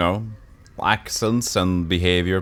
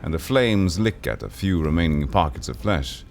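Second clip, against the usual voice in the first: game narration. Acted. Game master describing a fire creature to the player.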